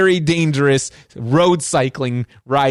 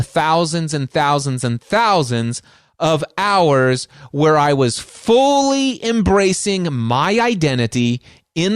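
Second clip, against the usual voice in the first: slow emphatic; slower than usual. Real, not acted. Inspirational climax of the talk.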